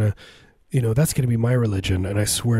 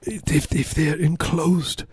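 slow, higher put-on voice of a man who fears his feet will rot; mock barefoot man; 3 semitones higher, slower than usual. Comic mimicking the barefoot guy talking about his feet, slow and high. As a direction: drag out the words like a fussy sandal man.

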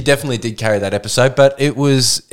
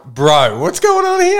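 surprised; 4 semitones higher, slower than usual. Retold or imitated. Quoting himself at cohost.

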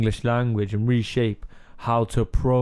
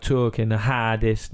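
put-on Cardiff accent. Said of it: "we would be like".

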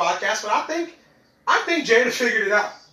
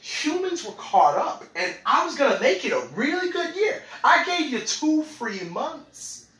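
twenty twenty talking; slower than usual. Retold or imitated. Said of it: "this is twenty twenty talking".

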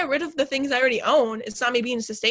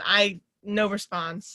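deadpan; 3 semitones lower, much slower than usual. Pretend. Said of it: "I'm gonna give you crickets".

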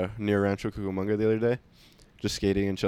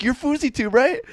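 much higher mock stranger; 14 semitones higher than usual. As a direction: pitch it way up like the cocky stranger. Stranger repeats mistaken name.

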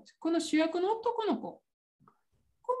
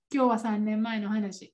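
episode title read; 5 semitones lower than usual. Shown as a demonstration.

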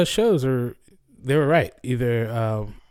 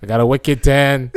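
mock Boston accent. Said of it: "Boston accent".

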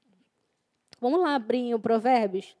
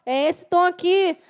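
impatient instructing; 3 semitones higher, 3 dB louder than usual. Retold or imitated. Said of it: "toda hora a gente fala".

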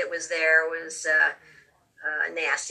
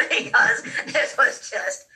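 laughing; 5 semitones higher, 4 dB louder, slower than usual. Real, not acted.

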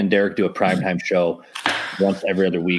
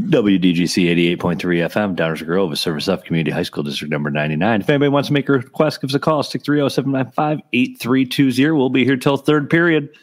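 upbeat radio DJ announcement; 3 semitones higher than usual. Acted. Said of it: "deep D J radio voice".

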